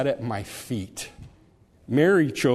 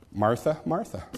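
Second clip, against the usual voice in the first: tender; 2 semitones higher than usual. Shown as a demonstration. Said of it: "conveys, uh, just a sense of tenderness".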